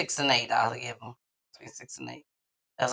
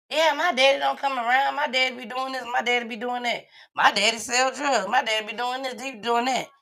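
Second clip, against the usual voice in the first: put-on higher-pitched run of kids' chatter; imitated schoolkids; 6 semitones higher than usual. Host mimicking kids gossiping about their daddies, lightly imitated child talk.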